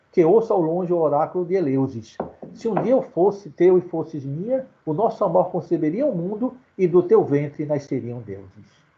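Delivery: measured, recited poem reading; poem recital. Acted. Teacher reciting a sonnet to the class, measured verse. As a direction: let the verse carry the rhyme.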